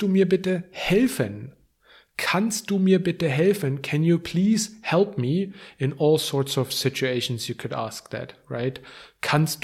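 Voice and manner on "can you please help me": normal talking voice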